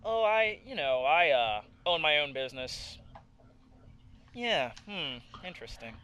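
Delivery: lightly voiced snooty lady; a hint of snobbish disdain. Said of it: "the retard voice can also be a snooty voice".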